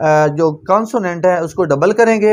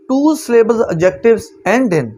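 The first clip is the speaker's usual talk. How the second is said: very slow, word by word rule reading; slow dictation; 4 semitones higher, much slower than usual. Shown as a demonstration. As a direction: read the rule out slowly for notes. Reads rule title aloud. (धीरे-धीरे नियम पढ़ना)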